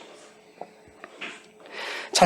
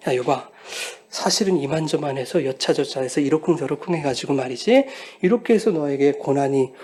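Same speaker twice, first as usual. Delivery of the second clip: lower, offhand mock explanation; a hint of a chummy God; casual God; 3 semitones lower than usual. Pastor voicing an imagined casual God to Job, offhand. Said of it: "뭐 이렇게 말씀하지 않으세요".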